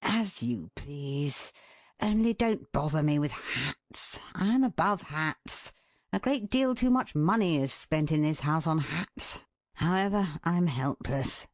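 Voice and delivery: husband's aloof martyrdom; lofty disdain. Shown as a demonstration. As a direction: sniff down at hats. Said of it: "or whether you convey".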